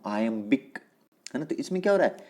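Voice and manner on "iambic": "iambic" sounded out by syllable; pronunciation demo. Shown as a demonstration. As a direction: pronounce "iambic" carefully for a class. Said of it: "मैं इस word को pronounce कर रहा हूँ".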